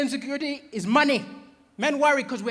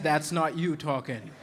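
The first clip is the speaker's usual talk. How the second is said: mock therapist; 7 semitones lower, slower than usual. Throws her therapist line back at her.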